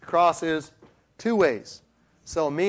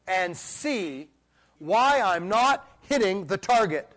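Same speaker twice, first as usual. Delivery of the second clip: pleading prayer; 7 semitones higher than usual. Retold or imitated. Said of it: "like David said".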